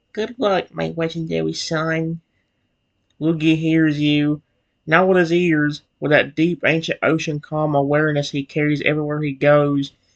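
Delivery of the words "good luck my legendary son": soft-spoken, hushed, understated delivery. Speaking in a role-play game, wishing a creature luck: quiet, soft-spoken. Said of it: "and then I quietly say".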